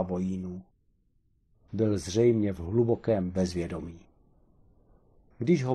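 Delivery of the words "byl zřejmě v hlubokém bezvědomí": ordinary delivery, nothing marked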